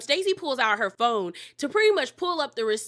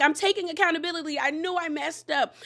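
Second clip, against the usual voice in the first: higher, hurried imitation of owning up; mock defensiveness; 5 semitones higher than usual. Castmate answers friends' accusations, mock defensive admission. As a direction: lightly mimic a pleading admission, pitched up. Mia defends herself, retold.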